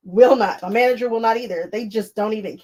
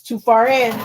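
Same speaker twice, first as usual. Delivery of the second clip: louder, firm quote of husband; husband's firm push; 2 semitones higher, 6 dB louder than usual. Retold or imitated. Husband urging her not to quit, firm and loud. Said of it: "My husband says".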